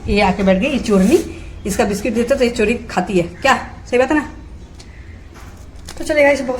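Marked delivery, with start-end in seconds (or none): 0.1-4.3 teasing. Real, not acted. Teasing the parrot.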